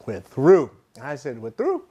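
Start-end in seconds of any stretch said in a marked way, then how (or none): 0.0-0.7 imitating a firm, louder we're through with a falling end; curt breakup line. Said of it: "she called me and she's like". 1.4-1.8 we're through tossed back high with a sharp rising question; echoing the girlfriend's breakup, incredulous; disbelieving echo. Retold or imitated. Repeats her words back in disbelief.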